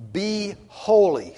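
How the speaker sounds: "Be holy" high, loud and slow; loud slow command. Shown as a demonstration. Preacher commanding the church, high and loud. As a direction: proclaim "Be holy" as a ringing command. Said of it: "Be holy, that's the command".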